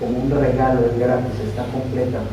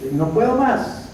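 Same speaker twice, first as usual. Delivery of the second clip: imitated cry of giving up, pitched high; retold tearful plea; 9 semitones higher, slower than usual. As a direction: plead it, rising to a high end. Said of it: "me tiré a llorar".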